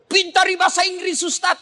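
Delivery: usual speaking voice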